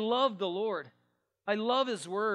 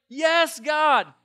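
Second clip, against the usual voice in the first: loud, high cry of praise; fired-up praise; 7 semitones higher, 12 dB louder than usual. Acted. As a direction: shout it like a pumped-up churchgoer. Acted fired-up worshipper cheering.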